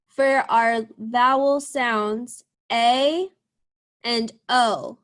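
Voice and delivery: slow, stretched A and O; drawn-out vowel sounds. Shown as a demonstration. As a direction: stretch each vowel for the children. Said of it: "listening for the long A vowel sound".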